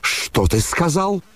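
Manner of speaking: high, slow outraged challenge; thunderous demand. A narrator's reading. The general challenges his son, in a mock thunder. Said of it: "загремел генерал".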